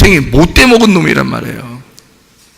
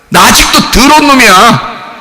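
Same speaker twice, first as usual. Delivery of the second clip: raised, forceful admission; blunt confession; 4 semitones higher than usual. Shown as a demonstration. Preacher models honest admission of being dirty, blunt forceful confession. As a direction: declare it openly to everyone.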